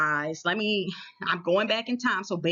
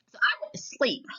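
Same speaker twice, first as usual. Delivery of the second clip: whisper; 3 semitones higher than usual. Acted. Whispering the sleep moment.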